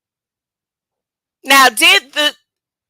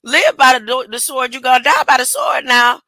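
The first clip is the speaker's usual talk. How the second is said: scolding. Retold or imitated. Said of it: "he gonna scold Peter and say".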